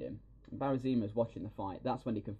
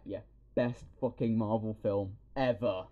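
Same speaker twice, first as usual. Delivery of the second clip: mock fan cheer; slower than usual. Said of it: "I'm like".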